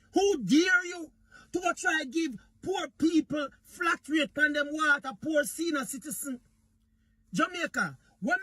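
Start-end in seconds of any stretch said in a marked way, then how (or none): 0.1-4.3 imitating angry outburst. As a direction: throw his angry words back at him. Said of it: "The man was so angry".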